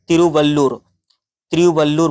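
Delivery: careful model pronunciation of तिरुवल्लूर; तिरुवल्लूर, carefully sounded out as a full name. Shown as a demonstration. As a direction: say तिरुवल्लूर distinctly for learners to copy. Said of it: "इसे आप थोड़ा सा pronunciation कर लें".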